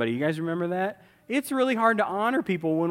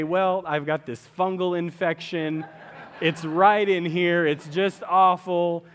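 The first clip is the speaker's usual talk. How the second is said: slow, drawn-out mock complaint about an infection; oversharing complainer; 2 semitones higher, 5 dB louder, slower than usual. Preacher mocks a shopper oversharing, slow mock whine. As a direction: whine it out like a shopper telling the cashier too much. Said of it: "that is not the time for you to say".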